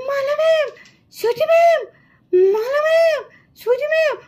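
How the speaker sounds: mild frightened calling out. Acted. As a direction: push the calls for help a little harder. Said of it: "আমি তো ঠিক করে জোরে জোরে ডাকতেও পারছি না". (ভয়ে একটু জোরে ডাকার চেষ্টা)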